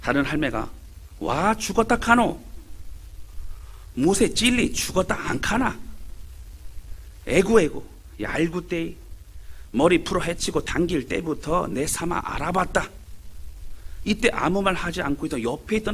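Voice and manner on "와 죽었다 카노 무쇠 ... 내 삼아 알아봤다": slow, lightly voiced Gyeongsang dialect old woman lamenting; drawn-out Gyeongsang grandmother, mildly mournful; Gyeongsang granny dialect. Second granny answering her friend, slow mild Gyeongsang dialect. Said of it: "경상도 할매들의 대화입니다".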